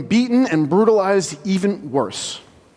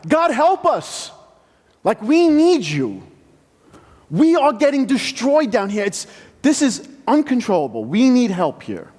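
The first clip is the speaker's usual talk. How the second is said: higher, pleading cry to God; desperate cry for help; 4 semitones higher than usual. Acted. Oppressed Israelites begging God for help, desperate plea.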